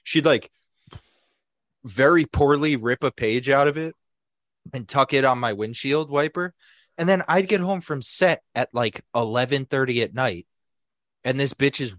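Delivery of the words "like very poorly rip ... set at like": ordinary talk, nothing marked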